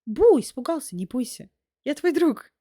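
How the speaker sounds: a light mock scare, then friendly; playful spooky meme voice. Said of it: "need to do, like, a meme like that".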